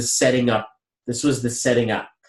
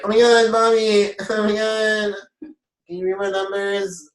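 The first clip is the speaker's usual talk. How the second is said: high-pitched mock gushing; hammed-up eager high voice; excited clients imitated; 9 semitones higher than usual. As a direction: imitate fans squealing for a reading. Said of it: "you guys are like".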